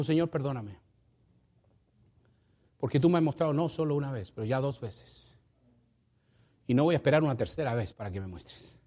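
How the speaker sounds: a mild tearful confession; tearful prayer. Retold or imitated. Brother René praying to God, mildly tearful. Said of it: "con lágrimas en los ojos".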